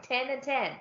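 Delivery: "ten and ten" standing for ten and tin, both said identically; merged vowel. Shown as a demonstration. Showing two words as the same word, merged vowel. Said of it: "Same word".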